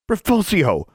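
high, commanding cry; yelled spell. A narrator's reading. Someone breaks up the brawl with a spell, high urgent yell. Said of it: "someone yelled".

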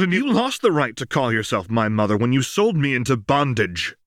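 a hint of a sharp-tongued Lux; sharp retort. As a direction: cut her mother down. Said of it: "Lux said sharply".

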